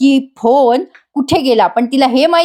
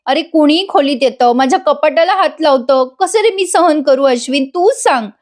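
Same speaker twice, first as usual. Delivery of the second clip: higher pleading, imitating tears; lightly put-on weepy appeal; mock tearful plea; 4 semitones higher than usual. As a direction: act out a wife's tearful complaint. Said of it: "रडून पडून त्याला पुन्हा पगळवते".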